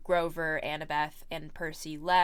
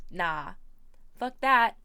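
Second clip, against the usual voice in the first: loud dismissive retort; 8 dB louder, slower than usual. Retold or imitated. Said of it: "Poseidon said".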